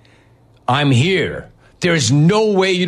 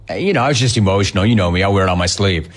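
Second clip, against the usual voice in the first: mock excuse; 8 semitones lower, much faster than usual. Mocking the player's excuse.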